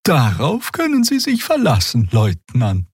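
high, bright assuring voice; eager assurance. Acted. Xia promising the officer, high and eager. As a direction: overdo the helpfulness a little.

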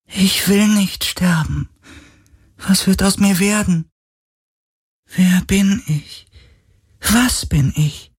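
a fading spirit afraid of dying; high frightened spirit. A narrator's reading. Spirit pleading with Galen, high and frightened.

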